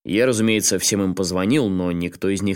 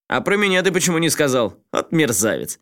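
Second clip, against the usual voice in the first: sarcastic; 6 semitones higher than usual. A narrator's reading. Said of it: "язвительно вставил".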